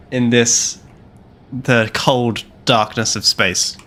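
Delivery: slow, dramatic villain pronouncement; drawn-out, ominous mission speech; dark lord. Pretend.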